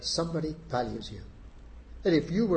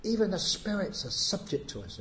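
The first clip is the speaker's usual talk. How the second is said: disciples quoted; 5 semitones higher than usual. Retold or imitated. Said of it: "they said".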